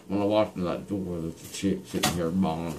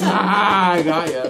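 laughing loudly; 12 semitones higher, 8 dB louder than usual. Real, not acted. Patient laughing loudly, joking.

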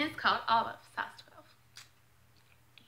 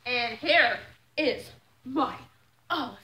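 grand reveal; 3 semitones higher, 4 dB louder, slower than usual. Real, not acted. Presenting the next item.

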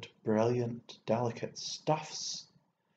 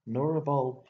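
louder mocking jab; taunting; 3 semitones higher, 6 dB louder than usual. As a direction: rub it in, triumphant. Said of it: "I taunted".

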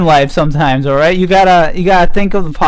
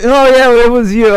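imitated realization; 8 semitones higher, 4 dB louder than usual. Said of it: "when LeBron was like".

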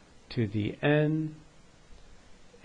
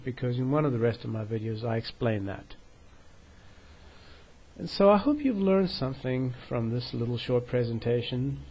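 out of breath. Real, not acted. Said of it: "I'm a little out of breath now".

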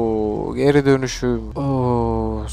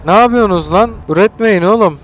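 louder, higher scolding of the crew; exasperated yell; 5 semitones higher, 5 dB louder, faster than usual. Real, not acted. Gamer scolding his colonists, exasperated yell. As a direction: yell at them to stop producing.

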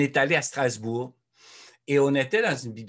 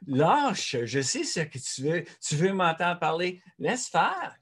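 teasing brush-off; 5 semitones higher, slower than usual. Retold or imitated. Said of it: "je leur dis toujours".

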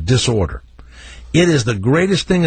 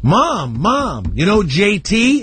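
imitating a child bursting with news; mock kid excitement, pitch rising; excited kid; 5 semitones higher, slower than usual. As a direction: call for Mom like an eager little one. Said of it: "so, so they're excited that".

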